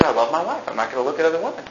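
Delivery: softly retold, gentle explanation; reasoning, not mean. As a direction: explain it quietly, without condescension. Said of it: "I didn't say it in a mean and condescending way. I just reasoned with him".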